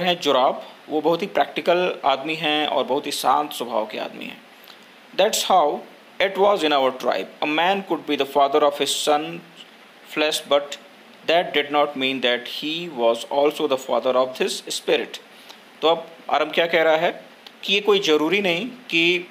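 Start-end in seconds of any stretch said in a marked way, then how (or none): 5.2-15.2 slow, measured textbook reading; story read-aloud. A narrator's reading. Teacher reads the English story to students, measured read-aloud. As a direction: read it out slowly, phrase by phrase.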